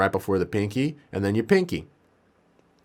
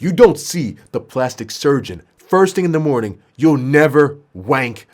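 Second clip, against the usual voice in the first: mild acted yell; 3 semitones higher, 5 dB louder than usual. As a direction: tell off the patient emphatically. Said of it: "yell at him".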